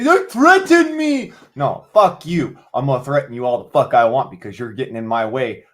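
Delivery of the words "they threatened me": high, slow whiny voice; high whimpering parody of a complainer; mocking whine. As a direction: mimic a tattletale, squeaky and drawn out. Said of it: "And they say".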